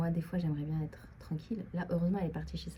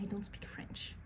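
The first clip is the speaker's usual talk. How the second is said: softly imitated roommate, much quieter; imitating roommate; 3 semitones higher, 9 dB quieter, slower than usual. Imitating roommate's complaint about her English, said softly. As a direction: quote her under your breath, a little higher. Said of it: "Elle me l'a dit comme ça".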